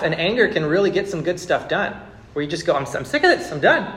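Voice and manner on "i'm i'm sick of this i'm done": fed up. Retold or imitated. Voicing fed-up anger.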